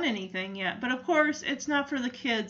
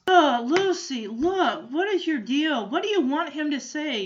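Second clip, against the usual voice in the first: louder, fed-up outburst at Lucy; exasperated scolding; 4 semitones higher, 6 dB louder than usual. Retold or imitated. Charlie Brown losing patience with Lucy, louder. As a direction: snap at her to drop it.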